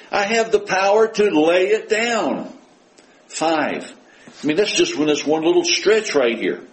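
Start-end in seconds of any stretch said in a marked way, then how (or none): 0.1-2.5 "I have the power to lay it down" high, proclaimed; emphatic quote. Acted. Preacher quoting Jesus a fifth time, emphatic high "I have the power to lay it down". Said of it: "Five times is pretty emphatic".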